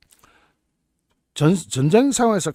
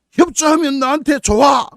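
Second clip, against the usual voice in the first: louder, higher mock shout; 5 semitones higher, 4 dB louder than usual. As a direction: yell it at a captive. Acted shout at prisoner.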